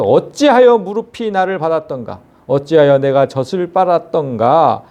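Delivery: measured, solemn Bible reading; scripture reading. Acted. Preacher reads Job's lament to the congregation, solemn.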